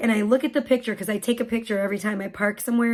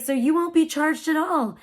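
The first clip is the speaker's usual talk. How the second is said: higher, lilting reassurance; so nice; 5 semitones higher than usual. Retold or imitated. Attendant reassuring mom about the charge, nice and lilting. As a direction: imitate a kindly attendant reassuring. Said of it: "He was, like, so nice".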